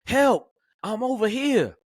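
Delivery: high, slow straining cry; weak yell for help. Retold or imitated. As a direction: gather the last strength and call out.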